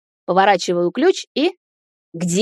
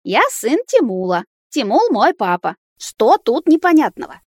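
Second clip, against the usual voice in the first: put-on exasperated child; 5 semitones higher, 3 dB louder than usual. Boy repeats, exasperated.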